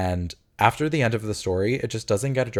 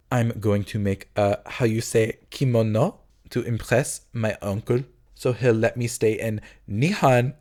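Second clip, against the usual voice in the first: mock French accent. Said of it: "a very good Bebe".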